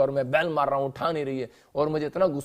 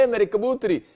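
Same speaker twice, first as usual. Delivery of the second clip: lovingly pleading; 6 semitones higher, 4 dB louder than usual. Retold or imitated. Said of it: "देखो कितनी प्यार से कह रहा है".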